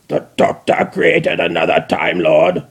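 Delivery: robotic surprised question; Dalek asking. Acted. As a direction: ask like a startled machine. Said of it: "the Dalek asked".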